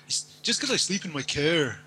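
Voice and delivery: put-on Canadian whine with odd vowels; Canadian accent. Shown as a demonstration. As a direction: exaggerate the Canadian vowel in "car". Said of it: "They say cars instead of car".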